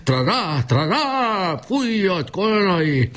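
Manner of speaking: high-pitched feverish report to a general; delirious rasping. A narrator's reading. Dying boy reports to his general, high delirious rasp. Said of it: "Most már hörögve beszélt".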